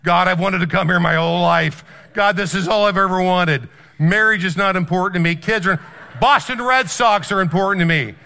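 loud, over-the-top pleading to God; hammed-up desperate prayer of a die-hard fan; mock fervent prayer. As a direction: cry out to God, comically earnest and loud. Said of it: "his prayer was".

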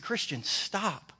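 a slow, gentle stop from God; a hint of Morgan Freeman, drawn out; God's voice. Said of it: "He said".

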